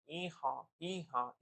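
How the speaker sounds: lightly imitated donkey hee-haw; mild mock bray in two bursts. Shown as a demonstration.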